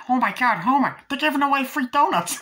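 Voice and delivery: high, loud excited phone call; Lenny. Retold or imitated. Lenny phones Homer about free donuts, excited high shout. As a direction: blurt it out in a high, thrilled shout. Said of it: "eventually Lenny calls, like".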